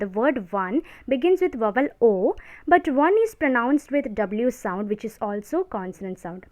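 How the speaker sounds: slow, word-by-word dictation for notes. Shown as a demonstration. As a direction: read the rule out slowly so students can write. Dictating grammar rule slowly.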